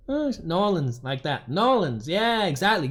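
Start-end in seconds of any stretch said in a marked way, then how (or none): 0.4-1.0 "New Orleans" run together as Nawlins; conjugated local pronunciation. Shown as a demonstration. Agreeing on the local form, "New Orleans" run together. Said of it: "you know how it's conjugated". 1.5-2.1 "New Orleans" run together as Nawlins; conjugated local pronunciation. Shown as a demonstration. Agreeing on the local form, "New Orleans" run together. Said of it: "you know how it's conjugated".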